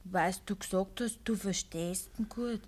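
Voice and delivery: low whispered reproach. Acted. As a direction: keep it barely audible.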